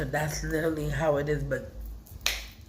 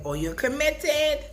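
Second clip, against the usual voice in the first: higher, slow teasing grandma voice; grandma's voice; 10 semitones higher, 4 dB louder, slower than usual. Retold or imitated. Grandchild imitating grandmother's scolding, higher and slow. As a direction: mimic grandma scolding lightly. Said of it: "she'd be like".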